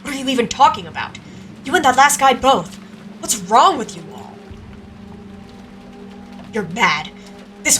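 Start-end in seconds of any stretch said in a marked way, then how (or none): 0.0-4.3 higher, heated questioning; agitated confrontation. Acted. Two people confronting each other over accusations, agitated. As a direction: demand answers, losing your calm. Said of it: "completely different from how calm you were".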